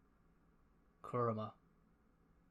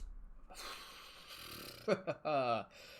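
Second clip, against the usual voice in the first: long breathy exhale with a voiced tail; heavy sigh; 3 dB quieter than usual. Real, not acted. Reader taking in a ruthless arc, heavy sigh. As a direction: blow out a long, overwhelmed breath.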